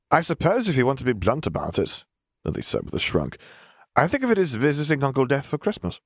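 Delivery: put-on high, light girl telling her morning; a matter-of-fact young girl. A narrator's reading. Girl character, casual.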